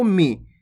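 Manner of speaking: मी with a short, unheld i; short vowel. Shown as a demonstration. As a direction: keep मी brief, vowel unstretched. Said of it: "इतना ही करना है आपको".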